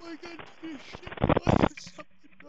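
echoing like inside a cave; hollow, distant cave echo. Real, not acted. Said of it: "Sounds like you're in a cave".

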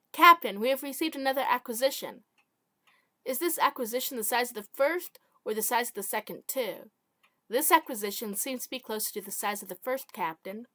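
alien officer with a lisp. Acted. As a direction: lisp through the report. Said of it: "I sound like I'm lisping really bad".

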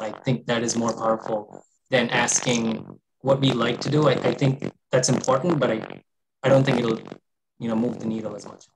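robotic, distorted voice over a bad mic. Real, not acted. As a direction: speak through a glitchy, distorted microphone. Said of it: "You sound very distorted".

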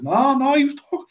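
high, excited and fast; eager high-pitched explanation; excited retelling. Retold or imitated. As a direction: gush the story out. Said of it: "I says".

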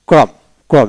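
ক্রম as one syllable, K start and no final E; silent H and E. Shown as a demonstration. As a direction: say ক্রম without any H or E. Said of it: "এইচ এবং ই বাদ যাবে".

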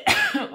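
sudden real chesty cough. Real, not acted. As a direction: cough hard mid-sentence. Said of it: "ale jeszcze kaszel mnie męczy".

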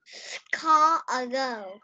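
whispered score a goal. Real, not acted. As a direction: whisper the phrase. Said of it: "That's right". (đọc thì thầm)

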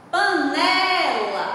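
slow "panela" with NE lengthened and emphasized; stress on NE. Shown as a demonstration. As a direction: draw out the middle syllable of "panela". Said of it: "o né se destaca". ("panela" devagar, destacando o NE)

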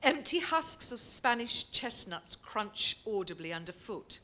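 measured literary reading of a nature essay; unhurried prose reading, savouring each image; reading aloud. Acted. Reads closing extract.

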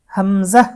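হামজা ending short, without drawing out the vowel; no stretch. Shown as a demonstration. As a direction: cut the final a of হামজা short. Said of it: "কোনো টান হবে না". (হামজা টান ছাড়া)

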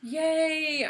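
high loud triumphant shout; triumphant cry. Real, not acted. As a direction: crow it out in delight. Psychic guess confirmed.

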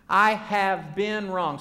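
slow, deliberate confession; leading a recitation. Shown as a demonstration. Preacher modelling a confession for the congregation, slowly drawn out. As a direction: stretch every word for others to follow.

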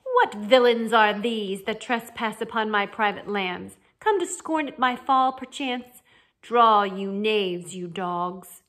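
loud, slow theatrical challenge; pompous mock-heroic outrage, stretched words; blustering knight. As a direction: declaim it like an outraged storybook knight.

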